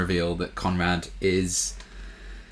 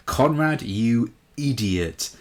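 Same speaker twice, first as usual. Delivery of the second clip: exasperated outburst; 5 semitones higher, 4 dB louder, much slower than usual. Retold or imitated. Yelling at character on screen.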